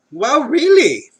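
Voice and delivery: slow, high "really" full of doubt; incredulous and stretched; disbelief. Acted. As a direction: draw it out in hammed-up disbelief. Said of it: "slight hint of disbelief".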